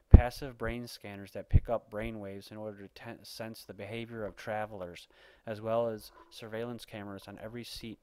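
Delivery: emphatic amateur news read; punched key words, measured reading delivery; article read-aloud. Acted. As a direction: read it out like an opinionated bulletin.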